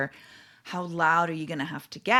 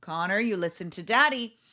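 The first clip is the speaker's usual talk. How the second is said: firm fatherly call, a little louder; mildly raised dad voice, laying down the law; lightly acted stern dad. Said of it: "You get louder and your voice is deeper".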